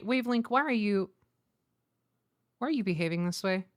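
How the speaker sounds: ordinary talk, nothing marked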